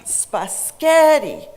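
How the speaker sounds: "spaghetti" as spuh-SKET-ee, middle syllable high and long; slow, loud "spaghetti" with SKET punched; center syllable stressed. Shown as a demonstration. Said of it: "center syllable was pronounced louder, longer".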